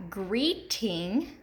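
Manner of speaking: "greeting" slow, long E in "greet"; stressed first syllable. Shown as a demonstration. Teacher giving an example, "greeting" slowly stressed on the first syllable. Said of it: "That long E is accent".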